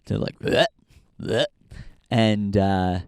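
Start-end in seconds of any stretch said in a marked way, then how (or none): 0.4-1.5 imitated dry heave. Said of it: "he just started dry heaving".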